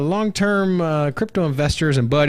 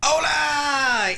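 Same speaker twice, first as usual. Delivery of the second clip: hype greeting; 9 semitones higher than usual. Real, not acted. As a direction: belt it like a show host. Host's energetic show opening shout.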